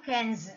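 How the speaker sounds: cans ending in a voiced "z"; final Z sound. Shown as a demonstration. Teacher groups words by ending, cans with final "z". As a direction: buzz the last sound of cans as "z". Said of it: "là âm giờ".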